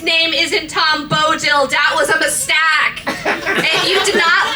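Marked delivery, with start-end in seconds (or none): none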